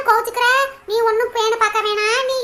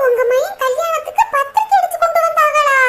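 shocked. Acted. Friend shocked by wedding invitation news.

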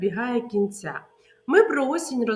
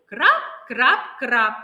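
louder drip sounds; 6 dB louder than usual. Shown as a demonstration. Teacher showing loud raindrops to children. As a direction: make the rain louder. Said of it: "Голосніше і тихіше".

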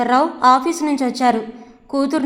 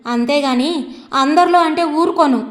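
angry outburst. Acted. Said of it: "కోపంగా ఎగిరింది".

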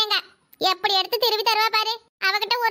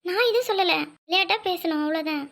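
tearful fading; 3 semitones lower, 3 dB quieter than usual. Acted. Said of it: "அதுக்குன்னு அழுகுற".

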